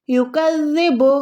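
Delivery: युकज़्ज़िबु with a soft held "dh" in the middle; measured demonstration of युकज़्ज़िबु; soft zaal. Shown as a demonstration. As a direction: say युकज़्ज़िबु carefully, doubling a soft "dh". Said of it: "दाल को आपने यहाँ पर soft अदा".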